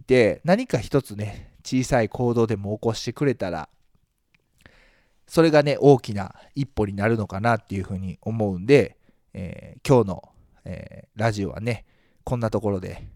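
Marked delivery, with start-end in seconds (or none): 5.3-13.1 nasal voice. Real, not acted. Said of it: "えー、鼻声で".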